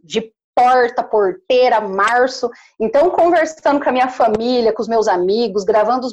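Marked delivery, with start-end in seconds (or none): 0.0-2.5 caipira R in "porta", "porteira", "março"; curled retroflex R on "porta", "porteira" and "março"; caipira country accent. Shown as a demonstration. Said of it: "eu amo o meu sotaque".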